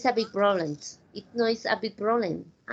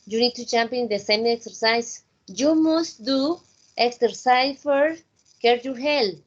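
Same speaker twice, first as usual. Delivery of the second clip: good energy. Shown as a demonstration. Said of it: "With a good energy".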